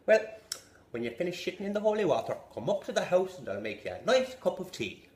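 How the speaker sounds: warm up instantly with relief; relieved villager. Acted. Villager welcoming the devil, cheerful.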